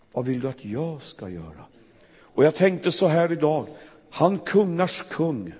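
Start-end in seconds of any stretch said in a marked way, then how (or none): 0.1-1.7 soft, tender question; gentle. Shown as a demonstration. Preacher voicing the real, gentle Jesus, soft. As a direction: ask quietly, stress "jag". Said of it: "Han sa".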